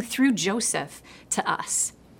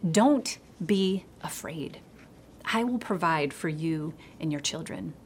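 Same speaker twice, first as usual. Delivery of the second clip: whispered reassurance; 3 semitones lower, 6 dB quieter than usual. Retold or imitated. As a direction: hush "don't be afraid" once more, gently. Scripture repeated as comfort.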